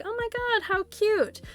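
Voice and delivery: high-pitched mock cooing; imitated gushing. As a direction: imitate someone gushing over something cute. Imitates people reacting to gnomes.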